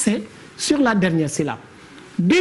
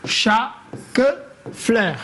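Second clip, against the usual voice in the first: "chaque fleur" split into separate syllables; "chaque fleur" spaced out slowly, syllable by syllable; much slower than usual. Shown as a demonstration. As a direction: pause between each syllable of "chaque fleur". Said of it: "nous allons essayer de découper".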